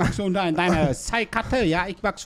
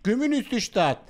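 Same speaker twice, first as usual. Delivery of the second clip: put-on Vietnamese accent in German; 2 semitones higher than usual. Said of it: "Hotel muss man als Vietnamese anrufen".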